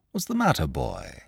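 put-on soft, kind question to a child; kindly inquiry. A narrator's reading. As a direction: start high, drop soft on the last word. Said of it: "he inquired kindly".

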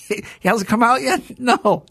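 high, drawn-out question through a laugh; laughing mock surprise; amused disbelief. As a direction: retell it incredulously, cracking up. Retelling his reaction to the lie.

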